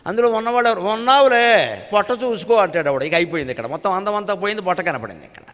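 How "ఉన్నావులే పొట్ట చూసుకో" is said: slow sneering tease; mocking jibe. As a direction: drag out the taunt at the photo. Mocking commenter on a photo. (వెక్కిరింపుగా నెమ్మదిగా)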